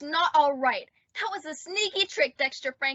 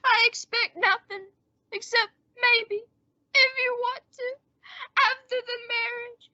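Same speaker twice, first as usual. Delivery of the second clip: mock-martyr deathbed plea; 3 semitones higher than usual. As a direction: pile on the self-pity to win her back. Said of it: "pull this deathbed gag".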